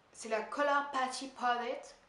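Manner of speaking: put-on slow, showy English accent. Vlogger shows off palette name, English accent. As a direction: pronounce it with a studied English accent. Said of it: "Admire mon accent anglais".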